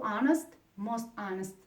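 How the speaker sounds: "most honest" with "most" leaned on; stress on most. Shown as a demonstration. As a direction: press the word "most" before "honest". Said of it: "For example".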